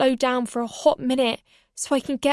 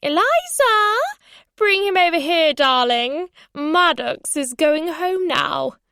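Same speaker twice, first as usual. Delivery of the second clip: put-on loud, high accented summons; grandmother calling out; 6 semitones higher, 5 dB louder, slower than usual. A narrator's reading. Grandmother telling granddaughter to bring rabbit, loud accented call. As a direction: call a child over from across the lawn.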